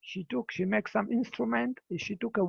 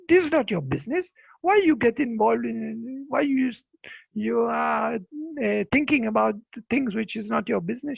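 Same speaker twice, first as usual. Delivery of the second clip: a louder, retold snap at the villagers; retold angry shout; 3 dB louder than usual. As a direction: tell them off, back off. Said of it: "She start to shout on them".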